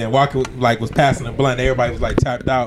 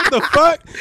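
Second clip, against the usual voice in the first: imitating angry guy; 13 semitones higher than usual. Quoting comedian's angry line.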